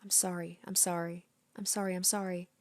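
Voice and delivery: soft, hollow repeated apology; quiet apology. Acted. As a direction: murmur the apologies half to herself. Rena apologizes in a daze.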